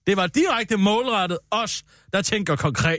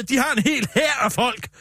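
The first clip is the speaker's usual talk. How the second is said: slow, raised, outraged shout; indignant shout; 3 semitones higher than usual. Acted. Politician rants to colleague about her enemies, slow indignant shout. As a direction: bellow it like a grievance. Ranting about Social Democrats' army.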